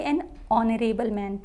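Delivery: slow, clear "an on-or-able man" with no h; silent h in honorable. Shown as a demonstration. Teacher models the silent h for students. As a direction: begin honorable on the vowel, no h. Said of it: "क्या बोलेंगे?".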